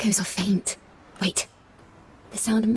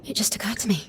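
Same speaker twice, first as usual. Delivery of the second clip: whisper. Acted. Musician realizing the truth, whispered. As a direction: whisper it to yourself.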